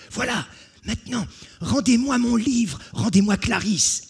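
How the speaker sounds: high, loud insistent plea; eager demand. Acted. Jean to the brigands, high eager demand. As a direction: claim the prize breathlessly.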